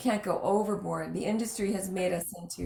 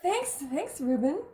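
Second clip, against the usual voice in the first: sarcastic thanks; 5 semitones higher, slower than usual. Retold or imitated. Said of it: "And I went".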